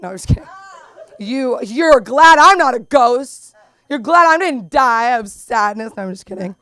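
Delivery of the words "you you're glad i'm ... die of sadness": laughing tease. Real, not acted. Teasing mom, laughing.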